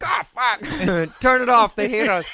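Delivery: high, loud mock-panicked passenger. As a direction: squeal it like a caught, panicking passenger.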